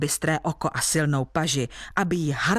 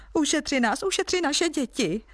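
higher, begging cry; pleading villagers; 8 semitones higher than usual. A narrator's reading. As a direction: plead for the children's lives. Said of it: "volali lidé".

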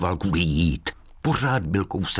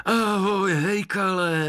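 raised, glad call of hello; joyful greeting; 12 semitones higher, slower than usual. Acted. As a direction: greet an old friend gladly. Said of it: "vykřikli děda i Tadeáš radostně".

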